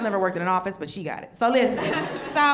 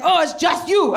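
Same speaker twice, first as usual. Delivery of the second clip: put-on young waiter's casual remark; 6 semitones higher, 8 dB louder than usual. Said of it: "He's like".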